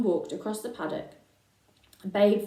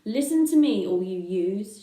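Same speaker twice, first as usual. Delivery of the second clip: raised voice; 7 dB louder than usual. Acted. Old ewe Ma addresses the whole flock, voice raised. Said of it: "Raising her voice".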